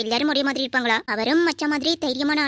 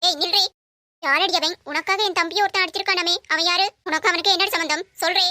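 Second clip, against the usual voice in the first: angry scolding; 3 semitones higher than usual. Acted. Stepmother confronts Dharshini angrily.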